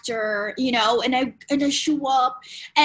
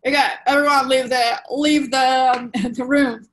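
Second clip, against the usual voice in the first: curt doctor; 7 dB louder than usual. Retold or imitated. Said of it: "That's how he talks".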